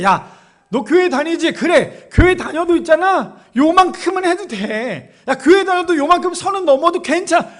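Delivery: loud, high, pushy persuasion; tempting devil. Acted. Devil urges a churchgoer to cross the line, loudly cajoling. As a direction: talk them into it insistently, brushing off every worry. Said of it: "마치 우리가 마귀에게 속아서 넘어지는".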